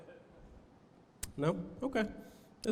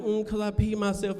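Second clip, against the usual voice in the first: put-on crying child; 4 semitones higher than usual. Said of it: "the kid comes home crying".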